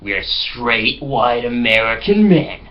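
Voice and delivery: hamming up a smug macho American; mock bigoted American guys. Friends pranking a bus as bigoted Americans, slow and smug. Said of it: "They were talking like".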